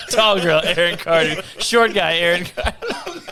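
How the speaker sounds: mock credits. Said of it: "it just says".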